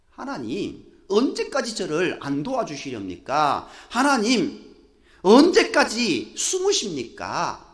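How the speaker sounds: acted lament, swelling at the end; reproachful plea. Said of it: "하나님을 향해서 원망하고 있는".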